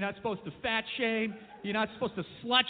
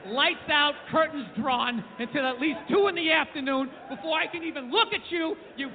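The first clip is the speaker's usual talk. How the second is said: self-loathing mirror talk. Retold or imitated. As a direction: sneer at yourself in the mirror. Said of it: "you're like".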